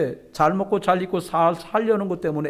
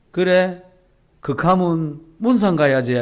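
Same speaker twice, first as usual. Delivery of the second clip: louder, slow Gyeongsang granny reply; Gyeongsang grandma; 2 semitones higher, 4 dB louder, slower than usual. Retold or imitated. A friend grandmother replying to the gossip, louder dialect. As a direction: answer firmly like a Gyeongsang granny. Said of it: "친구 할머니가 하는 말이".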